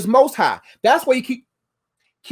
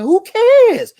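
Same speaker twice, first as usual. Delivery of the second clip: loud dismissal; 10 semitones higher, 6 dB louder than usual. Real, not acted. Dismissive exclamation.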